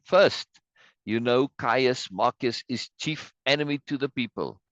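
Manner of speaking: lightly acted stage oratory, high opening word; mildly theatrical denunciation; orating citizen. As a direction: address the crowd, punching the first word. Reads citizen denouncing an enemy.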